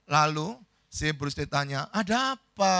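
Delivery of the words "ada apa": higher, groggy irritated question; annoyed. Acted. Bruce Lee woken from a nice dream, annoyed. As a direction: ask it like someone rudely woken. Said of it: "jengkel kan?".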